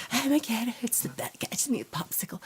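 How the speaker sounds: high, breathy mock whine trailing off; mock whiny complaining. Mocking her own whining about sore gums. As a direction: ham up the whiny patient. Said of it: "I was like that".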